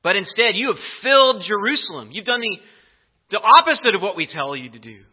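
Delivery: loud, forceful order from the rulers; emphatic command. Retold or imitated. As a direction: hammer home the order like an angry council. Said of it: "It's emphatic".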